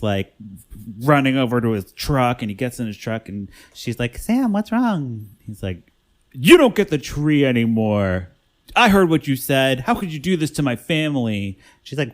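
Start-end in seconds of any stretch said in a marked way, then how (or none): 4.2-5.3 high, drawn-out worried question; slow, pitched-up retold plea; mock concern. Heroine retold asking upset Sam. 6.3-11.6 mock indignant accusation, punched at the start; mildly hammed-up angry outburst; retold anger. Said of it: "he gets all pissed about it".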